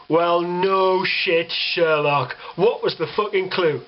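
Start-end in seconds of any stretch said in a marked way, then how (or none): 0.1-2.4 sarcastic. Real, not acted. Sarcastic retort to weatherman.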